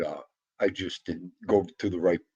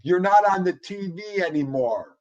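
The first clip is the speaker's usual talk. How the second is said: higher, playful pretend dog voice; voicing the dog; 7 semitones higher, 4 dB louder than usual. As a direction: put words in the dog's mouth.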